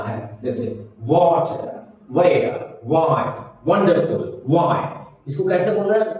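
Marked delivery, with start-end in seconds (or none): 1.0-4.8 "वाटर", "वेयर", "वाइफ" each starting with a rounded W; pursed-lip W opening every word. Shown as a demonstration. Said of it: "round lips में बोलना".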